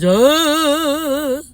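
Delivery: high loud release yell; cathartic shout. Real, not acted. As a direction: let it all out in one cry. Releasing weight, cathartic cry.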